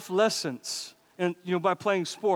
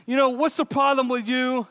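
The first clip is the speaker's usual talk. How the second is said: irate boss; 5 semitones higher than usual. Retold or imitated. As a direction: chew him out like the angry shop owner. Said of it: "he's irate. He's chewing him out".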